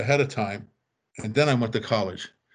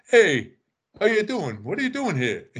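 Rodney Dangerfield; 8 semitones higher than usual. Retold or imitated. Comedian coming down the stairs to a visitor, boisterous greeting. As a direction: imitate a comedian hailing someone, voice swooping up. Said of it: "Rodney's coming down the stairs. He goes".

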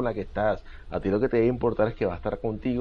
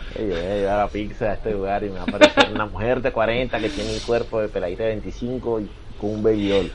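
pizza guy voice. Acted. Acting pizza guy fantasy.

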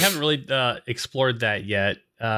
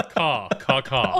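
crow caw; slower than usual. Pretend.

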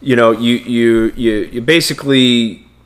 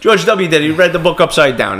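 punchline again, higher and amused; raised, insistent retelling of the joke; emphatic repeat; 5 semitones higher than usual. Real, not acted. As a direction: hammer the punchline home, pitched up.

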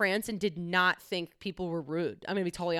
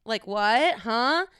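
bratty, higher-pitched "what?"; mock not understanding, pitch jumping up at the end; 3 semitones higher, 5 dB louder, much slower than usual. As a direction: act the impatient brat with rising questions. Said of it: "that bratty thing".

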